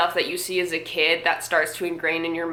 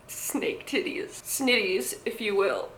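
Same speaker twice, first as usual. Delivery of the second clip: whispered; 6 dB quieter, slower than usual. Real, not acted. Deadpan joke aside.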